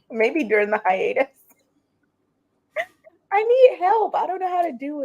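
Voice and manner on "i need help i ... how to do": laughing. Real, not acted. Laughing at own inexperience.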